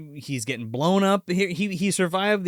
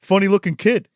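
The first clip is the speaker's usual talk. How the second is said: mock neighbor; 7 semitones higher, 5 dB louder than usual. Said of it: "looks at Junior and goes".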